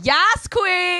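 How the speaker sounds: high, sassy cheer; sassy yes queen. Retold or imitated. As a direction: squeal it like a diva fan. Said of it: "tweeted me".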